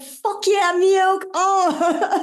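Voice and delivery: high excited cheer; cheering friends. Retold or imitated. Imitating friends cheering her on, high and excited. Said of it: "they were just like".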